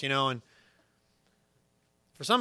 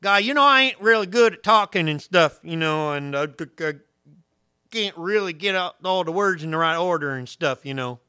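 loud hick voice, stumbling over words; hammed-up hick with a stutter; 8 dB louder than usual. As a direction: play a tongue-tied country hick. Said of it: "The equivalent of a stuttering hick".

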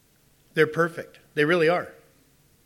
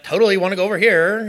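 lightly voiced valley girl; a hint of valley girl; 4 semitones higher, 7 dB louder than usual. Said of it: "talking like a valley girl".

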